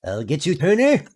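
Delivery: lightly voiced cartoon villain threat; Mister Crocker impression. Streamer ending his cartoon villain bit with a threat. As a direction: shake a fist at Turner. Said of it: "my Mister Crocker impression".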